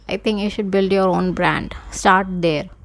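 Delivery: slightly winded talking; words squeezed between short breaths. Real, not acted. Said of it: "I am so out of breath".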